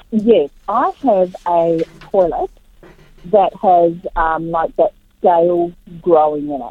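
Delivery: muffled, far from the phone. Real, not acted. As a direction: speakerphone sound, words dulled. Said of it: "you're a little bit muffled".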